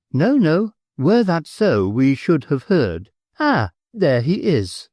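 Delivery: a hint of a high, quick-to-soothe wife; wife brushing aside her husband's unease; lightly voiced wife. A narrator's reading. Wife reassures, spots guest.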